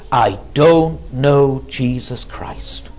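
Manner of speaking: slow, deliberate denial; cold resolution. Retold or imitated. Peter disowning Christ a third time, coldly resolute. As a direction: set each word down slowly and firmly. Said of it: "with cold resolution".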